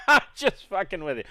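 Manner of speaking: high, quick, put-on chuckle into the words; joking laugh. Customs officer teasing the travelers, mock laughing. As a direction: act out a customs man laughing off his joke. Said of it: "he kinda laughs and goes".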